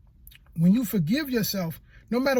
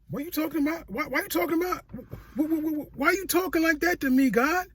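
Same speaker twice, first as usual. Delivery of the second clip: higher, stammering disbelief; bewildered; 5 semitones higher than usual. Retold or imitated. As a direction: stumble over the words in shock. Speaker retells his stunned reply.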